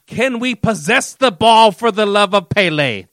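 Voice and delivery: slow, pleading exasperation; exasperated plea. Real, not acted. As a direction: beg them to keep the ball. Exasperated complaint about team.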